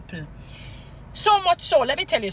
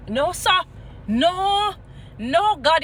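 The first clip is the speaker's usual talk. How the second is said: pleading protest; 7 semitones higher, 4 dB louder, much slower than usual. Real, not acted. Pleading with God over robbery.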